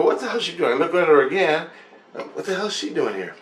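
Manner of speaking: high-pitched, puzzled retelling; mock astonished questioning; retold bewilderment. Acts out his bewilderment at friend.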